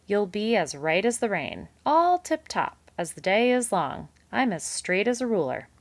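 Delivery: high, loud false reassurance; hearty reassurance. A narrator's reading. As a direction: oversell it like a slick salesman. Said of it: "Mister Kanad cried".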